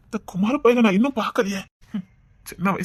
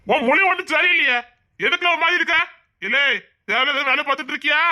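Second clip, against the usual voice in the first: higher-pitched, accusing questioning; suspicious scolding; 5 semitones higher than usual. Acted. Uncle grilling his nephew about loitering, suspicious and scolding. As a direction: press him with sharp, suspicious questions.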